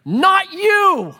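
put-on high, loud toddler protest; whiny toddler. Toddler son refusing his dad, high whiny yell. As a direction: whine like a three-year-old who wants mommy. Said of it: "Myron's like".

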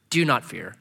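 low, gentle reassurance; kind, comforting. Acted. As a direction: comfort them kindly. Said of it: "he comforted them and spoke kindly to them".

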